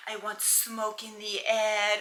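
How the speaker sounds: lightly put-on French accent, slow; mock French accent. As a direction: playfully imitate a French accent. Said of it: "I'm mimicking their accent".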